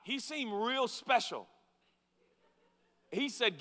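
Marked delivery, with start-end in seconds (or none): 0.0-1.5 loud, easygoing street voice; lightly voiced cheerful healed man; casual healed man. Healed man explaining to the lawkeepers, loud and casual. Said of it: "And he's like".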